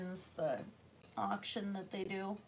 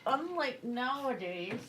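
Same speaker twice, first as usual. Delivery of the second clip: talking around a brush in mouth; mouth full; 4 semitones higher than usual. Real, not acted. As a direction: say it with a paintbrush between your teeth. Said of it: "I had the brush in my mouth".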